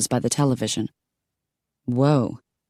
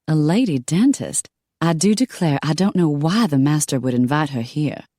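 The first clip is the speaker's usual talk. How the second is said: put-on a light Southern belle accent. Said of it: "her accent making her sound like a southern belle".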